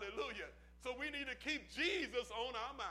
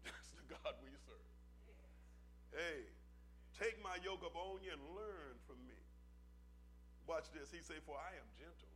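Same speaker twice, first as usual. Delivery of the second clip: sudden hush; 8 semitones lower, 10 dB quieter than usual. Real, not acted. Drops low after climax.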